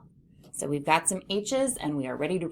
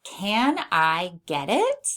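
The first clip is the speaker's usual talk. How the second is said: slow dictation; 4 dB louder, slower than usual. Shown as a demonstration. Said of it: "first sentence is".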